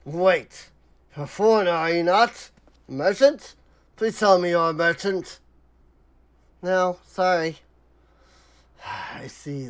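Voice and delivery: weary, disappointed merchant, near own voice; lightly voiced merchant. Merchant let down by a non-merchant, lightly voiced. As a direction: sigh it out like a let-down trader. Streamer voices consortium head.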